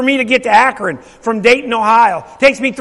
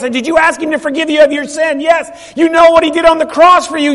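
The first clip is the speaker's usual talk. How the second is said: preaching shout; 4 semitones higher, 6 dB louder than usual. Retold or imitated. Baptizing mom, calling out.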